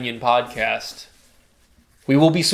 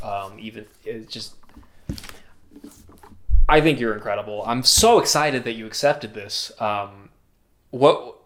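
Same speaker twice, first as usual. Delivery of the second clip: stage fright; 4 semitones lower than usual. Pretend. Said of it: "I'm nervous".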